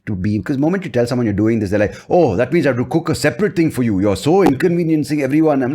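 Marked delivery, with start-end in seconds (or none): 2.1-5.6 a light mock South Indian accent, a bit higher and reproachful. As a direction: imitate a relative's South Indian accent, half-joking. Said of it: "they have a strong South Indian accent".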